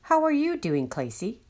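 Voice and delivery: bright, lifted greeting from the inner voice; inner voice character. Acted. Inner voice greeting Clacy, bright and lifted. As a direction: call out to Clacy like a kindly inner guide.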